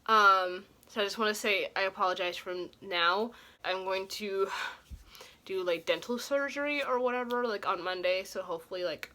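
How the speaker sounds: talking around a swollen gum; words slurred by a sore swollen cheek; swollen cheek speech. Real, not acted. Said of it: "My cheek is swollen because I'm having gum tissue problems".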